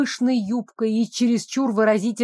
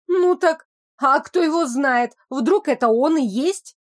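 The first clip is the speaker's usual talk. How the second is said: timid servant; 4 semitones higher than usual. Acted. Служанка робко возражает.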